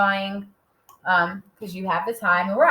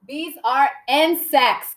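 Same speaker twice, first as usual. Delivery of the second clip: slow, higher, each word set apart; 4 semitones higher, 3 dB louder, slower than usual. Shown as a demonstration. Teacher reading the sentence for young writers, slowly word by word. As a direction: dictate it slowly and clearly. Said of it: "Can we clap insects?".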